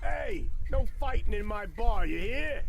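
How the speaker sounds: sharp high call to stop a fight; shouting. Acted. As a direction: yell to break them up. Barkeeper stops fight.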